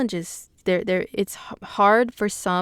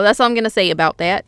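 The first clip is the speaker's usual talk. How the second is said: Forrest Gump; 5 dB louder, faster than usual. Acted. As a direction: toss off a catchphrase in a lightly put-on character voice. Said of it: "in my Forrest Gu-, Gump voice".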